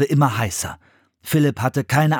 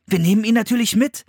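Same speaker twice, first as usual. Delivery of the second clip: put-on high-pitched, decisive boy; decided; 9 semitones higher, faster than usual. A narrator's reading. Philipp deciding to take Joey along, decisive. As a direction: settle it firmly, pitched up. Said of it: "entschied Philipp".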